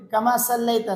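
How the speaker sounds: صلیت with a heavy emphatic saad. Shown as a demonstration. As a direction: give صلیت a full saad. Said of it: "یہاں پر بھی صاد ہے".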